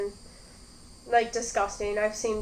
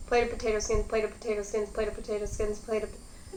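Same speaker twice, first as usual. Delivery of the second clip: tongue twister; 5 dB quieter than usual. Shown as a demonstration. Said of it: "Say that five times fast".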